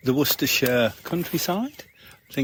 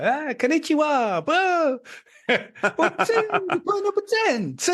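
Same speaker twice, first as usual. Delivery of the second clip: high, bouncy, overexcited cartoon voice; excitable Japanese video host; 14 semitones higher than usual. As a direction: squeal it like an anime mascot. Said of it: "they go / they're so excitable".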